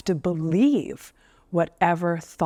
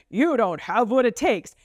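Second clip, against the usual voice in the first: lightly goofy demo voice; exaggerated, swooping silly delivery; 3 semitones higher than usual. Shown as a demonstration. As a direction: say it in a playful, silly voice. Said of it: "of silly voices".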